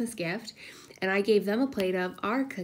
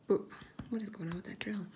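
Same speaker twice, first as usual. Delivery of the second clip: hushed unvoiced aside; whispering about the drill noise; whispered aside; 6 dB quieter than usual. Real, not acted. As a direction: drop to a whisper to yourself.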